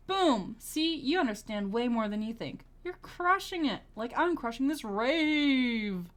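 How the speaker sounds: high, loud hyped cheer; excited cheering. Acted. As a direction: hype them up like at a rave.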